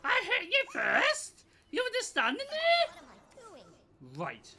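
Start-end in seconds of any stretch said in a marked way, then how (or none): 0.0-3.0 raging gamer. Real, not acted. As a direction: rage at the other player. Gamer indignant at opponent.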